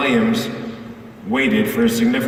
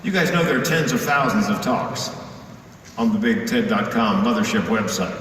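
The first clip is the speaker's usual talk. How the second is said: ordinary talk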